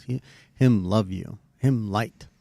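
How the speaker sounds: lightly voiced toddler, a bit slow; a hint of a small child's halting words; baby talk. Dad retelling his daughter in the hallway, in light baby talk. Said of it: "I'm gonna repeat it in baby talk".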